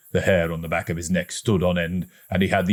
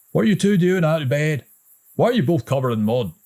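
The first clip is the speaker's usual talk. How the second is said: a hint of a stern father, a bit louder; 9 semitones higher, 4 dB louder, faster than usual. A narrator's reading. Father catches the boys out of bed, lightly stern. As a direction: scold the boys. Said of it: "he asked sternly".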